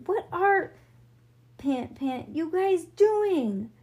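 high, loud, broken-up question; panting protest. A narrator's reading. Leo netted on the ground, panting protest. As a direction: stretch it out between spoken pants. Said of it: "Leo was panting too".

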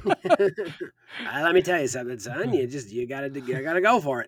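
lightly voiced game show host pep talk; a hint of a TV host giving someone the business; Regis. Co-host plays host egging on a contestant, lightly impersonated. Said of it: "Regis would give people the business".

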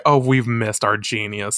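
usual speaking voice

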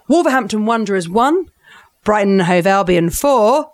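classified football results read; measured score-reading, lifting and dropping by result; broadcaster voice. Shown as a demonstration. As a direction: read the scores like a sports announcer. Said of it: "let's get my broadcaster voice ready".

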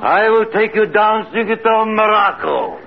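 entranced echo. Acted. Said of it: "Now repeat after me".

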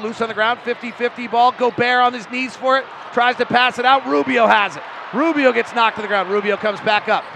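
urgent running commentary; live play-by-play. Real, not acted. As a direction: call the action live, rising toward the payoff. Live play-by-play building to basket.

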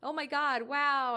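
loud high shocked exclaim; shocked gasp. Retold or imitated. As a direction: blurt it out in shock. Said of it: "where the class is like".

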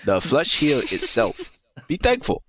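slow, lightly voiced old maester; a hint of a doddering old healer. Reading Pycelle's lines in character.

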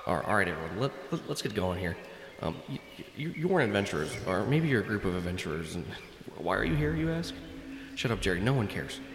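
badly faked grandfather impression; halting, half-hearted stab at a cartoon grandfather; Rick. Game master as the players' grandfather from the heavens, badly faked impression. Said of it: "I'm sorry my Rick voice isn't that very good".

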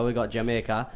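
a bad, half-hearted Jamaican accent. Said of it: "that's the worst Jamaican accent I've ever heard".

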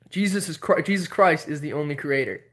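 solemn mock pronouncement, dropping low at the end; imitating stern believer. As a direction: imitate his dogmatic correction. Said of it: "how he said it".

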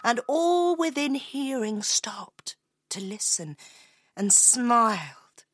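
slow, spellbound storyteller; story narration. A narrator's reading. Telling how the piper charmed the square, hushed wonder. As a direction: linger on each phrase as the music enchants.

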